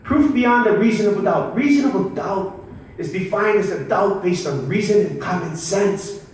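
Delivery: a touch of courtroom oratory; closing argument. Acted. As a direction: explain the law to jurors like a defense lawyer. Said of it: "So I would do a closing argument".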